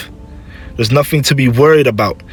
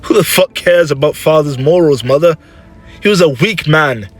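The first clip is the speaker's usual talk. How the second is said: raised, heated contempt; scornful outburst; 6 semitones higher, 3 dB louder than usual. Acted. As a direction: dismiss father angrily to mother. Son scorns his dead father.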